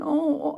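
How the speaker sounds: high pained "oh"; mock moan. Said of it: "he's going".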